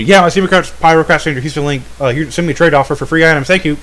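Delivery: rushed imitation of a self-plug; fast, glib put-on reply; mock brush-off. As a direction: rattle it off, ignoring the question. Mimics friend dodging with a plug.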